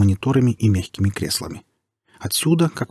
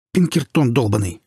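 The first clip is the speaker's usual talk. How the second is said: barking; 3 semitones higher than usual. Acted. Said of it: "рявкнул сталкер".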